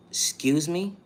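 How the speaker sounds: offended, rising question; incredulous. Real, not acted. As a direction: throw it back in disbelief. Incredulous retort to an insult.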